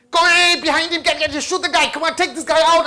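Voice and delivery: gamer yelling. Retold or imitated. Eldest sibling playing an online game yells at teammates, excited shouting. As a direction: cheer on the team like a gamer mid-fight. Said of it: "anything like my eldest ... playing online game".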